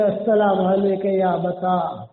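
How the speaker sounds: low, slow, reverent greeting; son's greeting. Retold or imitated. Son greeting his dying father, low and slow. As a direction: greet a frail father gently and slowly. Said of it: "اتنے میں گئے".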